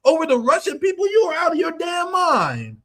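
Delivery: incredulous tirade aimed at Bernie; scornful rebuke to Bernie. Retold or imitated. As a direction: scold Bernie, building to a shout at the end. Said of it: "and I'm like".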